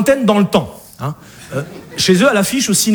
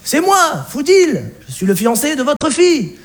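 higher, hurried plea through laughter; mild panicked pleading; 6 semitones higher than usual. Acted. The fiancé begging the Alsatian mother to calm down, mildly panicked. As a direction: beg her to calm down.

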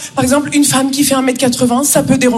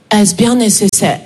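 slow, lower, haughty lady; snooty question; 4 semitones lower than usual. Retold or imitated. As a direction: look down your nose. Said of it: "la question que je me pose". (la dame hautaine, lentement et plus grave)

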